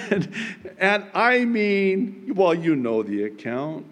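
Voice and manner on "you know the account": ordinary talk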